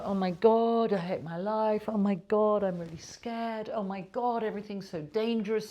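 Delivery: a hammed-up anxious wail; panicky whining. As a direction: imitate someone waking up scared of everything. Mocking an anxious morning self-talk.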